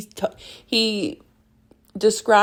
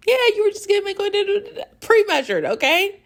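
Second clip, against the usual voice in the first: sarcastic; faster than usual. Real, not acted. Teasing Ilya's excuse.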